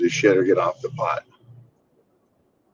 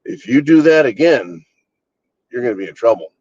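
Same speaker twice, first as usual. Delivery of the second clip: a lightly voiced parent, first warning, a touch louder; mock a parent's first threat, half-hearted; first warning from a lightly played scolding parent; 3 dB louder than usual. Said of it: "The parent that says".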